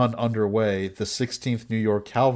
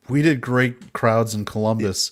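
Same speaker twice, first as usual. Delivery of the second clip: whiny Mary Todd; 3 dB louder than usual. Retold or imitated. Mocking Mary Todd at tour.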